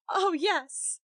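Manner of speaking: mild bitter cry. A narrator's reading. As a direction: spit it with sarcasm. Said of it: "she cried bitterly".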